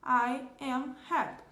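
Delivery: "I am happy" said slowly and clearly; slow model sentence. Shown as a demonstration. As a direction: spell out "I am happy" for the class. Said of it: "eu tenho lá o pronome I".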